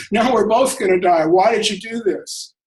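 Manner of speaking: lightly acted, bewildered protest; incredulous frog. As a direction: plead for an explanation as the doomed frog. Dying frog confronts scorpion in story.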